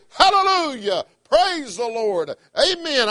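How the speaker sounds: high, ringing praise, slow on praise the Lord; joyful praise shouts. Shown as a demonstration. Preacher showing what he'd shout when a song stirs him, high joyful praise. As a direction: model the praise for the church. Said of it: "I'd say".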